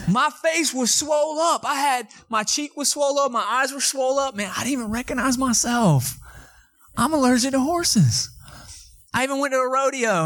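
high, laughing recollection; amused disbelief at his own swollen face. Real, not acted.

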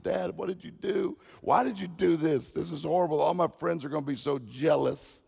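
high-pitched mock wail of a kid; hammed-up tearful complaint, easing off; mock crying. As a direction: whine to dad like an upset child. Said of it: "started crying. He said".

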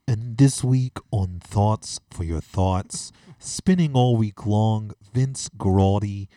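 slow, hushed radio announcer voice; lightly voiced public radio host. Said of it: "public radio voice talking".

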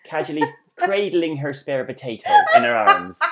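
laughing while teasing; amused teasing. Real, not acted. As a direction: tease through the giggles. Teasing friend, cracking up at own joke.

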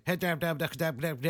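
mock a Maine woodsman's accent; Maine backwoods accent. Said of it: "those deep woods Maine guys".

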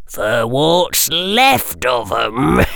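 slow, nasty parting jab with a laugh; caretaker's nasty farewell to the students; mildly nasty caretaker. A narrator's reading. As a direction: twist the knife slowly. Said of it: "he added nastily".

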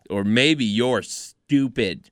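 put-on very slow, lightly childish put-down; mock childish taunt. Host mocking a wrestler as an eight-year-old, childish taunt. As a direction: stretch it out like a mock schoolyard insult. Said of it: "He's an eight-year-old".

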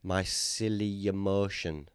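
"My silly emotion" said slowly and dreamily like a grand name; mock name pitch. Pitching a joke restaurant name, slow and grand. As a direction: present it slowly as a fancy name. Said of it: "That's the name of a new restaurant".

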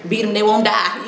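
quoting it through a laugh; a joking quote said with a laugh; laughing scripture quote. Retold or imitated. Wife to the group on discipline, quoted laughing. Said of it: "we use the scripture".

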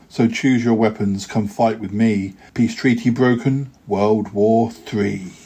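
rhythmic verse read aloud, rhymes landing; poem reading. Acted. Poet reads Peace Treaty to listeners, rhythmic and playful. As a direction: deliver each couplet with a light bounce.

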